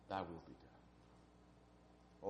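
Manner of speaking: slow, whispered prayer; whispered surrender. Acted. Preacher repeating Jesus's prayer to congregation, slow whisper. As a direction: breathe it out slowly in a whisper.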